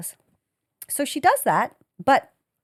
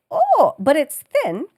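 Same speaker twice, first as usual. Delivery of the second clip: nervous relief; 6 semitones higher, 6 dB louder, slower than usual. Retold or imitated. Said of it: "I'm like".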